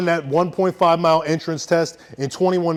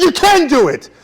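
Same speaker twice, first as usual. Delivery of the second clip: mock yell; 5 semitones higher than usual. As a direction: push him like a drill sergeant. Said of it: "And I'm screaming at him".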